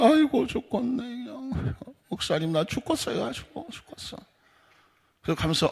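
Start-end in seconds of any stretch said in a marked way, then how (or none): 0.0-4.2 high, soft put-on moaning; mock a worn-out congregant's lament; woeful complaint. Longtime believer grumbling to the pastor, woeful complaint. Complaining church member acted in retold counseling.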